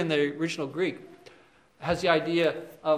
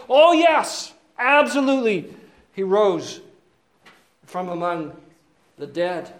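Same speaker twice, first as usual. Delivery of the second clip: smug devil; 4 dB louder than usual. Pretend. Devil answering the brothers, eager and smug. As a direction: play the devil selling himself.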